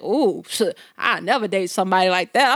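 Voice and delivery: low, lightly imitated man's voice; disapproving boyfriend. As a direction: mimic a boyfriend passing judgment. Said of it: "Or if he see a woman".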